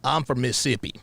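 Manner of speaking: a hint of country-boy date; white guy from Mississippi. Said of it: "let's say I was a white guy".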